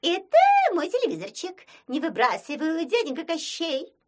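high, loud and fast squeak; quickly protect your little TV; anxious plea. Acted. Kikimora anxiously begs Koschei not to toss her TV. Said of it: "забеспокоилась Кикимора".

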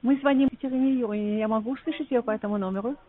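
ordinary talk, nothing marked

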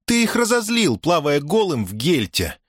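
put-on high girl's voice, teasing; девичий голос. A narrator's reading. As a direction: tease in a high, lilting call. Дая поддразнивает голого Мусу. (высокий дразнящий девичий голос)

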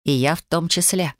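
usual speaking voice

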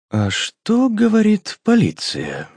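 put-on British guest asks about the police, in a British accent. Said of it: "с явным британским акцентом".

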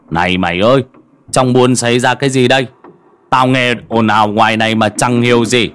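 put-on old villager grabbing a youth, loud and curious; gruff old man calling. Old Măng grabs Ca Rang and demands answers, loud. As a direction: call out like a nosy old man.

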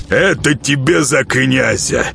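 slow, punching out ЭТО in Это тебе за князя; each blow a word, stress on Это; gloating while beating. Acted. Nezhato beats the boyar for the prince, slow punched stress on Это. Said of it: "приговаривая".

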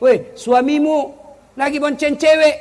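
loud, high gossipy friend voice; gossiping friend. Retold or imitated. Friend gossiping to the wife, loud high tattling voice.

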